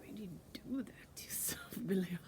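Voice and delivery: half-whispered, ending in a laugh; whispered teasing aside to the spirit Billy; whispered tease. Real, not acted.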